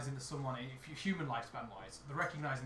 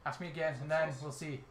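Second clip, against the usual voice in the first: light Irish brogue; Irish accent. Acted. Irish character pointing lads to an old soldier, Irish accent. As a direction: keep a mild Irish lilt. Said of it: "I've got an old Irish now".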